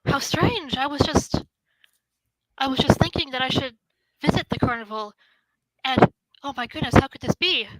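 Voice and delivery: mildly excited wonder, halting; rather excited. Acted. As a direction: marvel at it in small bursts. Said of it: "She seems rather excited to be here".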